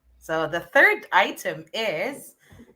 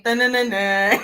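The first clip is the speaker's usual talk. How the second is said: drumroll sound; 3 dB louder than usual. Shown as a demonstration. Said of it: "should I say".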